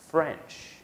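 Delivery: French as one clear syllable with a falling tune; model pronunciation. Shown as a demonstration. Teacher modelling French for students to repeat. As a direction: model French carefully for repetition. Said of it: "Say after me".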